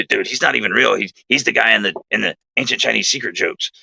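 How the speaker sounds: a hint of the buddy's odd voice; lightly voiced, dismissive buddy; imitating Bill. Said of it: "I'm gonna do my best to imitate Bill's voice".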